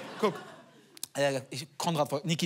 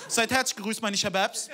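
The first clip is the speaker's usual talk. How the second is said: slang youth lecturing; 4 semitones higher than usual. Pretend. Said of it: "hält einen Vortrag zum Thema Klimawandel".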